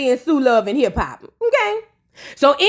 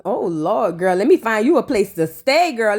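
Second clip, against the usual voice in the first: Nene voice; 5 semitones lower than usual. Pretend. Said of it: "Let me find you a place to live in my Nene voice".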